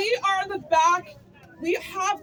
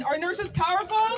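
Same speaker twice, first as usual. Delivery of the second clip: a shouted call to the crowd; rally call. Real, not acted. Rally speaker calls out to the nurses, shouting. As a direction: rouse the crowd with the question.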